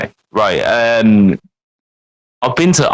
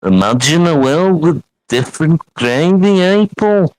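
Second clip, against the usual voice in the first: impression of a singer. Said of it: "Then he's like".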